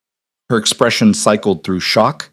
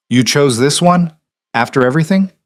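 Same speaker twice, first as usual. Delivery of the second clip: incredulous mother; 6 semitones higher than usual. A narrator's reading. Mother challenges son's choice.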